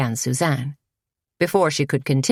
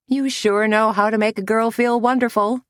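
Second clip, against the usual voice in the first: a light laugh through the words, pitched higher; laughing lightly; 7 semitones higher than usual. A narrator's reading. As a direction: tease back with a hint of laughter. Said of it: "laughed Suzanne".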